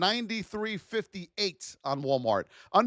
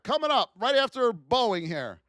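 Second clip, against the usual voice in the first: ordinary talk, nothing marked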